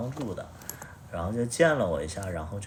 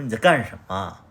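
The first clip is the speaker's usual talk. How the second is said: retold angry demand; 7 dB louder than usual. Retold quarrel with ex.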